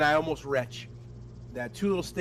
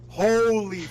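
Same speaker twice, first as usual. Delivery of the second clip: slow, loud disbelief broken by a laugh; shocked exclamation; 6 semitones higher, 5 dB louder, slower than usual. Retold or imitated. Cop outside Publix reacting to the stench, laughing loud disbelief. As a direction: let it burst out, half-laughing in shock.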